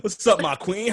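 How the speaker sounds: loud, high mock-charmer hello; exaggerated, sing-out greeting; new-persona greeting. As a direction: call out to your queen with hammed-up swagger. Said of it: "never spoken like that before".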